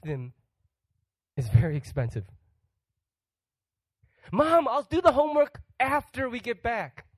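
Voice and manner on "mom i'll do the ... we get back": put-on higher, breezy child's promise; kid promising mom. Child promising mom about homework, higher breezy kid voice. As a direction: sound like a kid brushing off homework.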